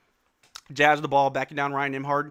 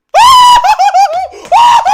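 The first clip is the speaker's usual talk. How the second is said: very high, loud burst of laughter; shrieking laugh; 19 dB louder than usual. Real, not acted. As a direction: shriek with delight. Erupts after shot falls.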